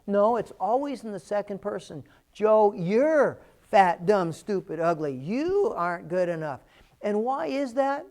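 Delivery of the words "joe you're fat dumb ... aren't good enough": a lightly acted nasty inner critic. Speaker voices his inner critic's taunts, lightly acted. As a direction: give the taunts as the voice in your head. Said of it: "You'll never hear that voice say".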